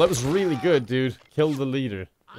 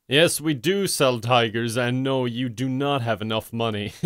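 mock bank clerk; 4 semitones lower than usual. Bank answers a customer wanting tigers, mock-clerk deadpan.

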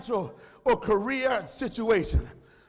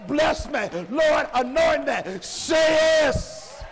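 full-force preaching; 2 semitones higher than usual. Acted. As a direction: rouse the church to say yes. Sermon climax, calling congregation.

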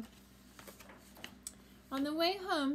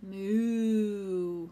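cow moo; 7 dB louder than usual. Acted. Puppy George moos for the vet, loud cow. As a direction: bellow it like a cow. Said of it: "George went".

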